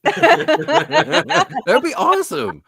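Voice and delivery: high laughing, slow and loud. Real, not acted. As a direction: laugh all through it. Laughing hard.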